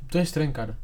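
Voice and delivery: put-on Brazilian Portuguese accent. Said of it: "sotaque brasileiro com voz de português".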